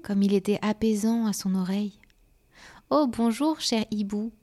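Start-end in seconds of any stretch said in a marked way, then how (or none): 2.9-4.3 high, delighted storybook greeting; louder opening burst of welcome, easing off; exclaiming. A narrator's reading. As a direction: exclaim with a raised, lifted voice. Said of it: "s'exclama Fleur de nuit".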